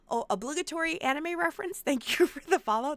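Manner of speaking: real laughter breaking up the words; laughing too hard. Real, not acted. Streamer thanks a new follower, laughing too hard. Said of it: "I'm laughing too hard".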